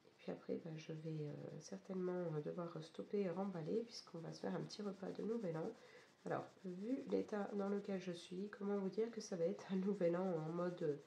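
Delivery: hoarse, losing voice from a cold; croaky sick voice, mostly gone. Real, not acted. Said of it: "vous pouvez l'entendre avec une voix complètement cassée". (voix cassée et enrouée)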